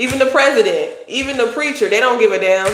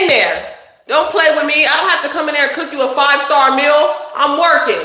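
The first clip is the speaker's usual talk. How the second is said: scolding her son; 4 semitones higher than usual. Real, not acted. Mother scolding her son Sonny.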